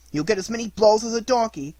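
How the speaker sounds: high, loud menace; threat. A narrator's reading. Boy warning Pinocchio of blows, loud and high. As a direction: promise him a beating.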